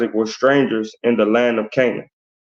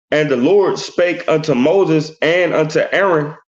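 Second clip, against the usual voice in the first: measured, deliberate Bible reading; scripture reading. Acted. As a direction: read the verse out with weight. Reads scripture aloud.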